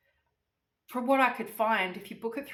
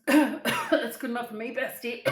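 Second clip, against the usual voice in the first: louder, thrilled second take with a cough; excited repeat; 3 semitones higher, 6 dB louder than usual. Retold or imitated. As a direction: repeat it with rising delight. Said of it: "And I'm like".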